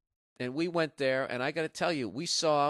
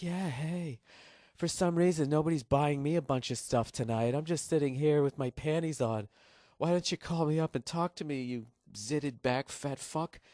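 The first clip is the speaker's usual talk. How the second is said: higher, breathy-free come-on voice, hammed up; 4 semitones higher than usual. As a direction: tease like a cheap late-night ad model, mockingly. Mocking late-night hotline ad women.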